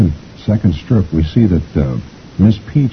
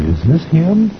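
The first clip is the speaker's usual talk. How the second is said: parakeet; 11 semitones higher, slower than usual. A narrator's reading. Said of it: "the parakeet is looking kinda mad".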